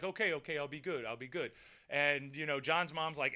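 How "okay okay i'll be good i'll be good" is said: meek promise. Retold or imitated. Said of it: "they're like".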